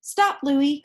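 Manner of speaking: calling out. Acted. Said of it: "called Julie".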